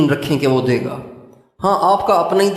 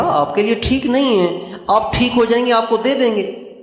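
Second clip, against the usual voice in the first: higher-pitched coaxing parent voice; parent to child; 6 semitones higher than usual. Acted. Parent refusing ice cream to a coughing child, coaxing. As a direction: reason with a child in a raised pitch.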